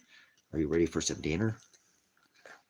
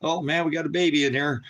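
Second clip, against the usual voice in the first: baby imitation; 8 semitones higher, 4 dB louder than usual. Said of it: "That's my baby imitation".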